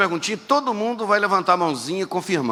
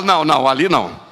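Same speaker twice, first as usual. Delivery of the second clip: emphatic no; 3 semitones lower, 5 dB louder than usual. Retold or imitated. Judging a lifeless believer.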